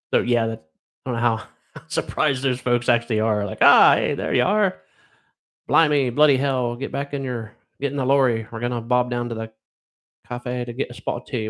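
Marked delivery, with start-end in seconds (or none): 3.6-11.5 jokey imitation of a British bloke; mock British accent. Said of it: "That would be, like, British".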